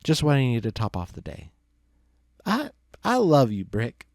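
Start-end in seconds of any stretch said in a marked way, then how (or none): 2.5-4.1 put-on slurred drunk declaration, higher. Drunk Luce telling Brick he loves him, slurring. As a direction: slur it out like a sloppy drunk. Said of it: "Loose Leaf slurred".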